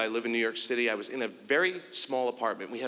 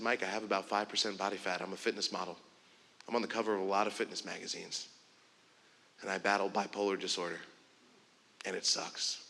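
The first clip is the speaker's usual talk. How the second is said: tearful confession; 4 semitones lower, 4 dB quieter than usual. Retold or imitated. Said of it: "he started to tear up".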